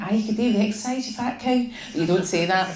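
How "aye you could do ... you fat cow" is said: fast, higher scornful retort; sneering. Acted. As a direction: spit it out under your breath. Narrator's inner retort.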